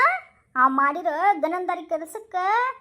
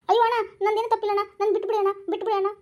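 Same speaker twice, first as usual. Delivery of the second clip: fast pleading; 3 semitones higher, faster than usual. Acted. Caught thief begs to be freed.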